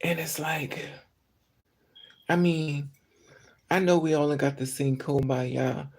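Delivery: normal talking voice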